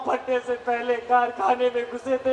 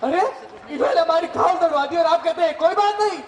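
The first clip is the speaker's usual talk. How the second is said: indignant outburst; 5 semitones higher, 3 dB louder, faster than usual. Acted. Worker outraged at dismissal.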